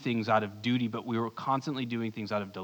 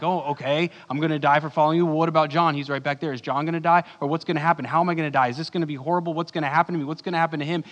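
Peter freaking out, voiced a bit louder; mock panic; 3 semitones higher, 6 dB louder, much faster than usual. Peter panicking to Jesus about John, mock fearful. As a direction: rattle off the worried questions in a mock panic. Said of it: "he starts having this panic attack".

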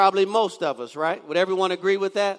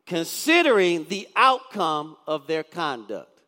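slow reading; 3 semitones lower than usual. Shown as a demonstration. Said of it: "Read it real slow".

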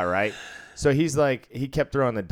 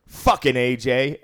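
slow and a bit louder, fed-up; exasperated mutter; 3 semitones higher, 5 dB louder, slower than usual. Retold or imitated. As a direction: sigh out the name in exasperation. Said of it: "He goes".

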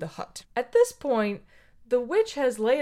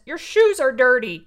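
witch refusing; 2 semitones higher, 7 dB louder than usual. Retold or imitated. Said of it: "the witch says".

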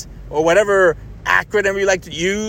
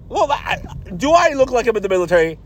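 exasperated; 2 semitones higher, faster than usual. Retold or imitated. His exasperated reply to soldier.

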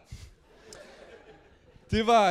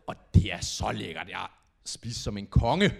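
usual speaking voice

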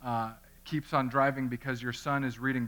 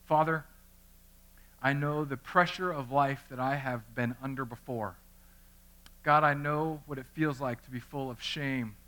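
earnest prayer. Acted. Pastor praying for the congregation before Romans, sincere. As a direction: pray it humbly before the church.

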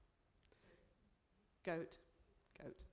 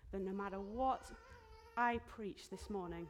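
choked up; 5 dB louder than usual. Real, not acted. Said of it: "I'm so emotional today".

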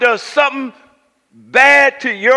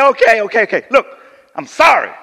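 brushing it off; 3 semitones lower, much faster than usual. Shown as a demonstration. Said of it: "I say".

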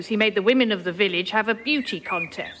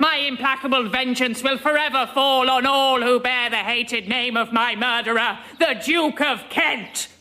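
vengeful witch. Acted. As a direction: proclaim doom like a hag. Witch pronounces her curse.

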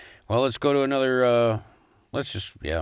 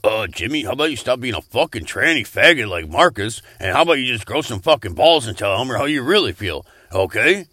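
louder, heated telling-off; angry rant; 5 dB louder than usual. Acted. Host yelling at Jimmy to grow balls, angry. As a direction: chew Jimmy out, rising anger.

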